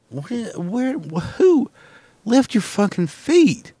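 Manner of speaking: high, strained mock outrage; mock shriek. Yelling down the hall at a shuffling coworker, high mock shriek.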